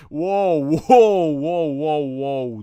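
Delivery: loud startled cry; alarmed whoa. Real, not acted. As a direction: react to the near miss. Reacting to a crash.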